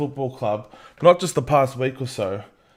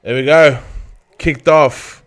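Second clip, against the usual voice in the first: loud cry of "there we go, kicked off"; excited kickoff shout; 2 semitones higher, 10 dB louder than usual. Real, not acted. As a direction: shout it as the whistle goes. Kickoff happens.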